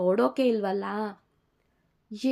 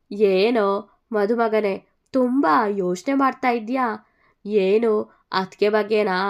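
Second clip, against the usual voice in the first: teasing; 5 dB louder than usual. Acted. Friend teases the groom.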